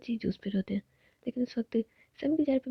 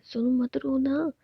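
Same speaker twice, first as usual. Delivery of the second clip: tender soothing; 4 semitones higher, slower than usual. Acted. Tenderly calming crying partner.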